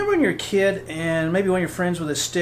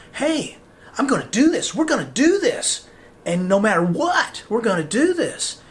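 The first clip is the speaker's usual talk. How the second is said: higher, louder resolve; determined vow; 4 semitones higher, 5 dB louder than usual. Retold or imitated. You, making a contract with yourself, voicing a loud resolute vow. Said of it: "making a contract with yourself saying".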